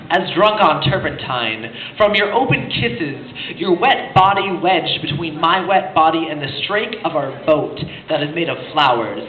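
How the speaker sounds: emphatic opening, then measured verse reading; poetry recitation. Acted. Reading Drunk as Drunk aloud, deliberate poetry recitation. Recites second Neruda poem.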